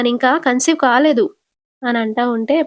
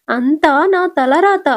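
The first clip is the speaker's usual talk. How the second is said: crying lament; 5 semitones higher, 3 dB louder, slower than usual. Retold or imitated. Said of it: "Rohini ఏడుస్తూ".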